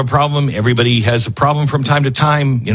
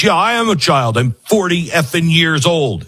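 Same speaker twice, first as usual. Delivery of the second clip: higher, sneering mock-childish retort; mocking a bratty man; 4 semitones higher than usual. Host imitating Basin answering the woman, mock childish sneer. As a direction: mimic a defiant brat, lightly. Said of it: "And he says".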